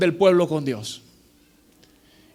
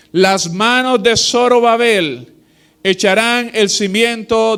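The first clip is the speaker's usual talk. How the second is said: solemn scripture reading. Acted. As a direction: proclaim the verse to the congregation. Reads scripture aloud in sermon.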